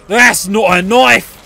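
slow, drawn-out mock film quote; film-line parody. Player joking after breaking a knife, slow film-line parody. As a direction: draw out "knife" slowly.

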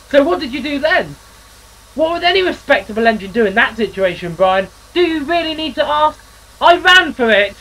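a chirpy railwayman spinning a yarn; engine character voice. Acted.

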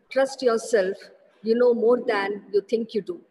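ordinary talk, nothing marked

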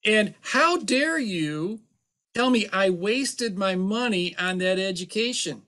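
indignant CPA defending his expensive degree; mock arrogant outrage. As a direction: huff like a proud professional insulted. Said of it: "arrogance and cheapness, they go hand in hand".

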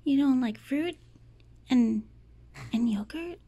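loud surprised question to the cat; loud disbelief. Real, not acted. Owner asking her cat why she refused the treat, loud disbelief. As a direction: sound shocked the cat refuses.

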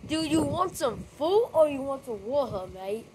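playful mock-British "mate" talk; hammy British accent, swinging up and down; put-on British accent. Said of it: "I love that accent".

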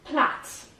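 پلات said like plat, no i sound; پلات, short a, don't read the i; پلات clipped and precise as plat; careful pronunciation. Shown as a demonstration. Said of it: "به تلفظ این دقت کنید".

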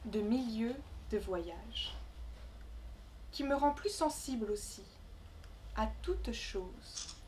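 measured recital with long pauses between phrases; poem reading. Acted. Poet reading her Congo travel poem to the gathering, measured recital. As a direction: recite it line by line, letting each phrase settle.

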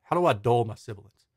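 breathy whispered question. Shown as a demonstration. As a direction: whisper it to show a dull, gentle S. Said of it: "and it's like".

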